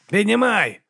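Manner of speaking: high, ringing rowing call; rhythmic call. Acted. Erik calling the oar stroke from the tiller, high ringing call. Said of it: "гукнув Ерік".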